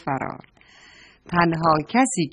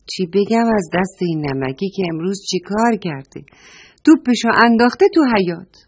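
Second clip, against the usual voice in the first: upset complaint; 4 dB louder than usual. Acted. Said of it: "با ناراحتی گفت".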